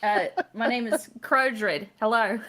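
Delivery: slow, lightly voiced Australian accent. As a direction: introduce yourself like a new Aussie guest, slowly. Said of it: "Hey, that was better".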